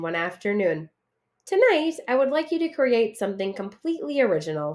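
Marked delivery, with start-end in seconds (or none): 1.5-4.7 teacher announcing. Acted. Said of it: "she announced".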